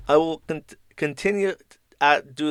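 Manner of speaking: put-on tentative British accent, halting over the T's; mock British accent. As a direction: stumble through a put-on British voice. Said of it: "they do say they T with the first one".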